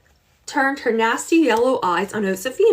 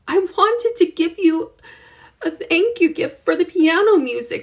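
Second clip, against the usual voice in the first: slow, sad explaining; 8 semitones higher than usual. Acted. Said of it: "Slowly, Josefina explained".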